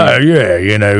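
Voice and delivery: gritty English street-tough voice; mock menacing English accent; angry English accent. Shown as a demonstration. Friend demonstrating an English thug, angry accent. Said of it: "That sounds like the angry one".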